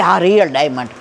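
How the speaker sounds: a hint of a boastful hostess; proud confirmation. Rich woman boasts to narrator about her diamond, smugly.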